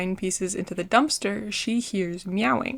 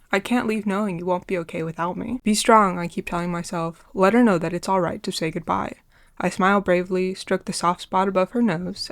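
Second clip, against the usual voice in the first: holding back tears. Real, not acted. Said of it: "keep the teariness out of my voice".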